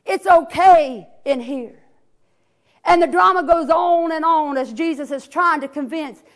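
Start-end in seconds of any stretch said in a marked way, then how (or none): 0.0-1.8 stubborn Lazarus. Acted. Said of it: "Lazarus hollers out".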